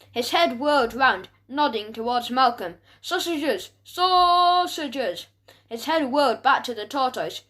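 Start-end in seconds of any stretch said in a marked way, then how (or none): 3.0-5.3 growled dog talk, last word long and raised; growl, then stretch the final word out higher. A narrator's reading. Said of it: "he went in a low growl".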